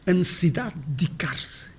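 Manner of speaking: a necessidade de dedicar-se whispered with vowels dropped, nssiðad di kaɾs; whispered reduced form. Shown as a demonstration. Lecturer whispers how we really say it. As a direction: whisper it fast, swallowing the vowels. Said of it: "Mas também não falamos assim".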